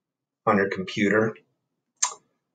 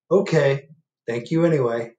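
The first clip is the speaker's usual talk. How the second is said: bear voice; 4 semitones higher, 5 dB louder than usual. Acted. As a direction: ask like a lost, patient bear. Bear thanks.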